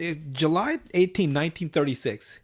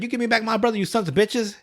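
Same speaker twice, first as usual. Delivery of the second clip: higher-pitched mock yell, little extra volume; retold screaming; 7 semitones higher than usual. Kyle yelling at aliens through Cartman's ear, mild mock scream. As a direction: imitate a yell without really shouting. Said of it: "screaming right in Cartman's ear".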